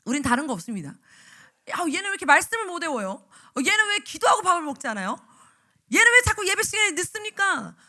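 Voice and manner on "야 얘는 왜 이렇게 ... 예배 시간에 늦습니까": rising to a furious yell; nagging teacher building to a shout; nagging scold. Retold or imitated. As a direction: scold the child louder and louder. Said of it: "막 이렇게".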